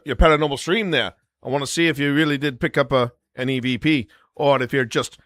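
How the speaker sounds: a lightly done British voice with an Oi, mate opener; a fond, half-hearted British mock of a friend; Beardo impression. Imitating Beardo calling him out, light British accent. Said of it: "That's my best".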